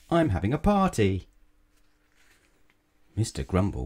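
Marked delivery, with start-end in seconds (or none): 0.1-1.3 high-pitched, excited hostess; cried invitation. A narrator's reading. Little Miss Fun inviting Mister Grumble, excited cry. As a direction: announce the party in a lifted, eager voice. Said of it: "she cried".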